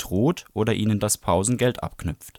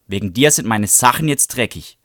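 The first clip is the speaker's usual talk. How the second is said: louder, furious accusation; angry complaint; 6 dB louder than usual. Acted. Bradley scrambling up from the wet grass, angry and loud. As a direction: blame her hotly.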